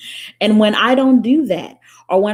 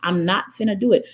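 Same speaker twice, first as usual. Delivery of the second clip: high indignant refusal; 5 semitones higher, faster than usual. Retold or imitated. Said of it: "I was like".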